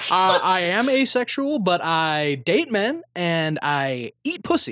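slow, careful mock-candidate statement; deliberate politician impression. Candidate clarifying his sexuality, slow and deliberate. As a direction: spell it out slowly, as if on record. Deadpan answer in Buttigieg's role.

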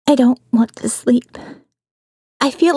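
unvoiced frightened whisper. A narrator's reading. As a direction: confess it under your breath. Narrator afraid, writing at night.

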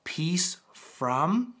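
"Grace to you" slowed, "peace from" whispered; drawn-out blessing. Retold or imitated. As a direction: hush into the blessing. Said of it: "John ... says".

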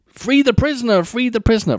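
high, repeated plea; mock shouting messenger. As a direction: chant it as a panting messenger. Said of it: "he's going".

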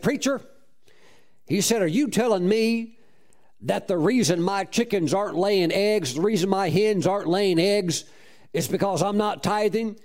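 a hint of an old farmer asking in disbelief; big farmer. Farmer Red asking the preacher, mildly voiced disbelief.

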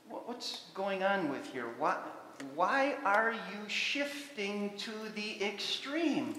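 a hint of a hurt father asking why; God's pained questions. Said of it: "God says".

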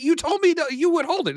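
a mild imitation of an indignant mom; livid mother. Mother accuses the clerk.

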